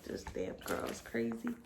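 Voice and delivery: a lightly voiced grumbling father; mock dad. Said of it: "He's gonna watch this, like".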